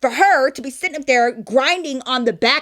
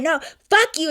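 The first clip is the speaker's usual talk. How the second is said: higher-pitched imitation of an angry girl; mock angry retort; 5 semitones higher than usual. Girl cursing back at the security brother, mock angry. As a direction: fire back like the mad girl, lightly acted. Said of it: "this bitch gets so mad".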